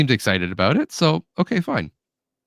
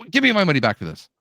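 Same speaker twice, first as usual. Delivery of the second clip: mildly angry imitation, pitched higher; retold angry demand; 5 semitones higher, faster than usual. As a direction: demand it like an irritated customer, half-strength. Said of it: "like, angrily".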